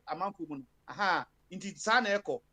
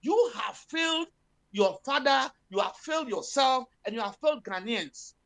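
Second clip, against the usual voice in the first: a pointed, slowed-down reproach aimed at the president; telling him to his face; 3 semitones higher than usual. Pretend. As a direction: lay the blame on him, word by word. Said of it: "Let's tell him in his face".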